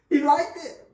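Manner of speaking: laughing through a tease; chuckling as he teases. Real, not acted. Teasing his cohost about the coach, laughing.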